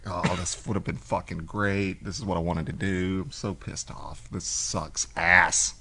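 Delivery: retold pissed rant. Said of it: "I'm pissed".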